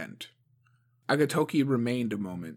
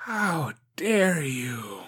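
sharp whisper; 5 semitones higher, 4 dB louder, much slower than usual. A narrator's reading. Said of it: "she whispered, her voice sharp".

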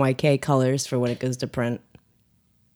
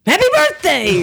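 shout; 14 semitones higher, 6 dB louder than usual. Acted. Shouted through the intercom.

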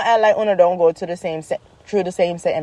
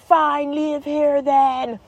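higher, drawn-out retort; exasperated mom retort; 6 semitones higher, much slower than usual. Retold or imitated. Mom answers stubborn daughter, exasperated. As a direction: stretch it out, fed up with the kid.

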